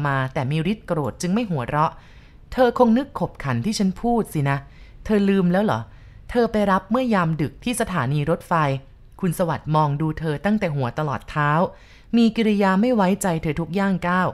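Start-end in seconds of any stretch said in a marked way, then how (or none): none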